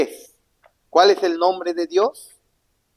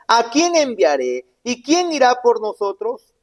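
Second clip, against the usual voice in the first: voice of the Lord; 8 semitones higher, 3 dB louder than usual. Acted. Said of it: "oí la voz del Señor que decía".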